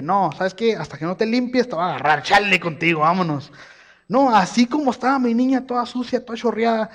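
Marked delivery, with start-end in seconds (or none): 0.0-3.5 mock annoyed dad. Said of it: "Acaso creen que yo le dije".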